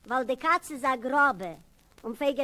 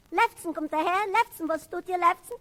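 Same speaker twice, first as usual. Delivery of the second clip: mocking nickname calls; 5 semitones higher than usual. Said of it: "man ruft mich Lefzen".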